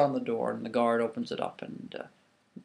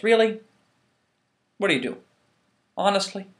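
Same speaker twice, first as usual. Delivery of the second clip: exasperated; 7 semitones higher, 7 dB louder than usual. Acted. Obatala soaked in palm oil.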